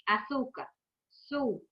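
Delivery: "Açúcar", then its stressed syllable "sul" alone; stressed syllable shown. Shown as a demonstration. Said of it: "é a sílaba tônica".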